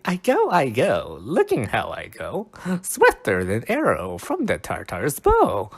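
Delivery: dramatic Shakespeare reading. Acted. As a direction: launch it like Puck setting off. Rereading the same lines.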